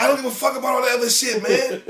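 high, loud brash mock rant; mock LeBron rant. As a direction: throw it away like a superstar fed up with stats. Voicing LeBron's imagined rant.

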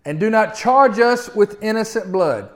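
a desperate crew begging for mercy; sailors crying out in prayer. Retold or imitated. Sailors praying to the Lord in the storm, pleading. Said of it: "they cried out to the Lord and said".

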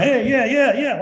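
high, loud string of quick yeahs; acted-out overeager greeting; mock eagerness. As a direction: blurt it high and loud, putting it on. Mimics guarded cheery walking around.

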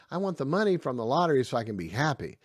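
hammed-up money-hungry voice; greedy wish. Voicing a greedy person.

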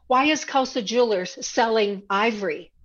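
retelling a heated challenge, half-performed; mock outraged protest. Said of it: "I remember specifically".

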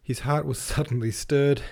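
a real laugh slips into the narration; laughing mid-line. Real, not acted. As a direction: chuckle through it while stretching. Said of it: "I'm doing my calves now".

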